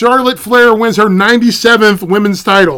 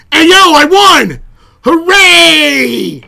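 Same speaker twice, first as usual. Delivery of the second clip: higher, louder slow gloating cheer; mock Becky celebrating, high and loud; gloating victory; 7 semitones higher, 5 dB louder, much slower than usual. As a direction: crow over the win.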